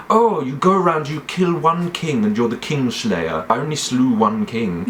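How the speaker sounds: put-on aggrieved knight, starting high; high opening whine settling into mock grievance; Jaime Lannister. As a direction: complain like a wronged swordsman. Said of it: "he sounds like this".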